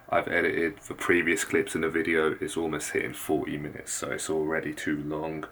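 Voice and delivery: hushed so sleepers stay asleep; soft, low late-night voice; keeping voice low. Real, not acted. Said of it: "I'm gonna have to keep my voice very low".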